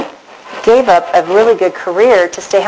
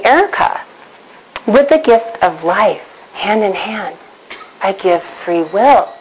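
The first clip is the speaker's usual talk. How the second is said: voice of God; slower than usual. Retold or imitated. God answering Erica, slow and solemn. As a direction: deliver it as a grave divine pronouncement. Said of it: "And God said to me".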